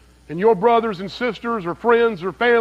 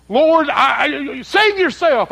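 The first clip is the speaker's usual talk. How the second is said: a higher, louder cry of the mocking thief; 6 semitones higher, 4 dB louder, slower than usual. Preacher voicing the thief on the cross, mock loud cry. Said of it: "he cried out in a loud voice".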